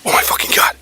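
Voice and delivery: shocked whisper. Real, not acted. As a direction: breathe it out in shock. Sees something up mountain.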